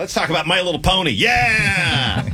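high mock-enthusiastic offer; sarcastic. Real, not acted. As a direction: sarcastically suggest a silly topic. Sarcastic topic change.

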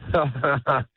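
short fake chuckle; fake laugh. Shown as a demonstration. Comic asked by host to show his fake laugh, fake laughing. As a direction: give a brief put-on laugh. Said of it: "let me hear your fake laugh".

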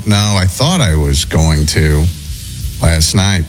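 usual speaking voice

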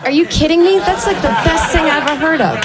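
high-pitched gushing disbelief; hammed-up enthusiasm, pitched high; excited delight. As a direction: gush as if thrilled by the idea. Acted delight at being a baby.

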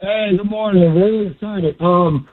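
muffled phone line; talking through a pillow. Real, not acted. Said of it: "It sounds like you're talking through a pillow".

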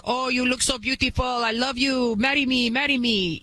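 lightly voiced gushing admirer; a hint of a mocked, lovestruck suitor; mock Nigerian suitor. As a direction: imitate a stranger eagerly proposing marriage. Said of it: "the guy from, like, Nigeria".

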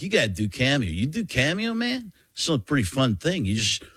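rising excited coach voice; Jon Gruden impression. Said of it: "He's like".

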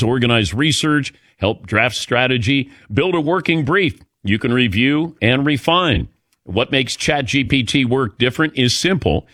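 smooth, slightly lifted radio sponsor read. Acted. Host pitching a chatbot to listeners, light ad-read delivery. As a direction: sell the features clearly, item by item.

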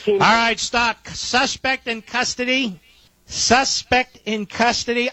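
high, slow and urgent announcement; suddenly high, gripped by the news; excited breaking news. Real, not acted.

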